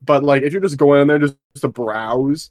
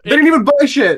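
much higher, louder complaint; indignant outburst; 12 semitones higher, 6 dB louder than usual. Real, not acted. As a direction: spit out the indignation. Venting about customers.

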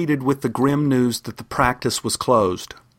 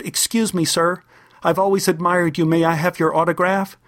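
lightly voiced small boy, higher and careful; polite little boy; 5 semitones higher than usual. Nine-year-old boy asks a giant player for an autograph, polite and higher.

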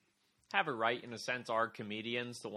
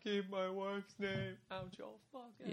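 a hint of Will Smith's fury, hissed; quiet furious warning, higher pitched; angry Will Smith; 7 semitones higher, 7 dB quieter than usual. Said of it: "seeing how upset Will was".

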